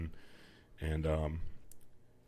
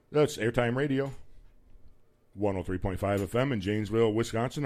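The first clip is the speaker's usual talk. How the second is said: loud, higher radio-host boom; booming male voice; 4 semitones higher, 3 dB louder than usual. Real, not acted. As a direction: project it across the studio. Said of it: "My booming voice".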